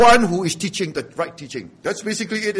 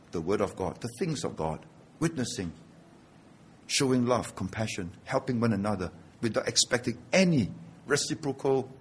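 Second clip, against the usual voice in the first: hushed preaching; 8 semitones lower, 10 dB quieter than usual. Acted. Preacher drops to a hush.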